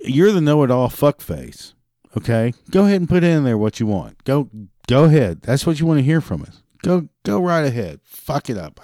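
mock permission, fed up; sarcastic rant.

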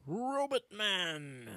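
slow drawn-out robot voice. Shown as a demonstration. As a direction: intone it like a robot. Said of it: "echoes name in robot style".

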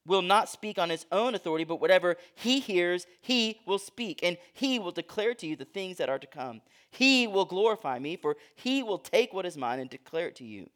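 measured scripture reading with HE held long; emphatic reading. Shown as a demonstration. Preacher has listeners count the pronouns, reading with emphasis. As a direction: lean hard on every HE. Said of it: "I'm gonna read it with emphasis".

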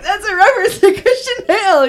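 high-pitched mock excitement; retold excited realisation. Acts out spotting the reference.

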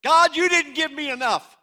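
loud, high accusing cry to God; hammed-up griping at heaven; mock complaint. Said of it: "and he goes".

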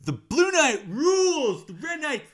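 high, slow stadium yell; fan shout. Retold or imitated. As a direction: cheer your team like a rabid fan. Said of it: "And he says".

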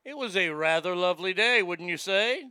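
mock prim lady. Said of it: "I don't like this lady".

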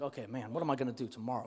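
very soft, low self-talk; retold worried thinking. Seventh grader lying awake over tomorrow's fight, hushed worry. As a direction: re-enact fretting to yourself in a hushed voice.

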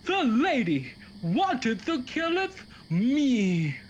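slow, lightly voiced stage accusation; mock Shakespearean. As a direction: accuse her like a bad Shakespeare actor. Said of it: "classically trained in Shakespeare".

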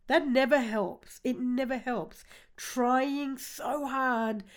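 laughing gently at herself; kind gentle laugh. Real, not acted. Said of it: "I'm not laughing at you, I'm laughing at myself".

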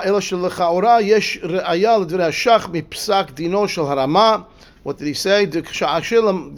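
slow, measured study-hall reading; slow text reading. Shown as a demonstration. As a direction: read the text aloud slowly, phrase by phrase. Reads Hebrew-Aramaic text aloud.

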